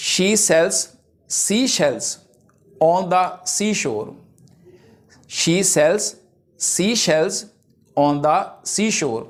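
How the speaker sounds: slow, spaced-out tongue twister; deliberate classroom recitation; slow example reading. Shown as a demonstration. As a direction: read it out slowly, phrase by phrase.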